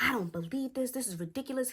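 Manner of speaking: high-pitched disbelief; imitated stepdad at his limit; exasperated. Stepfather's retold disgusted rant.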